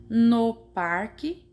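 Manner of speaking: "no" said slowly with a closed o, as in "noh". Shown as a demonstration. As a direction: show the word "no" with its rounded, closed vowel. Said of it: "é mais forte do que no".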